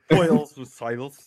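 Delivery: badly faked West Country that strays towards Welsh; attempted West Country accent. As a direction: have a shaky go at West Country, drawn out. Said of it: "say it in a West Country accent".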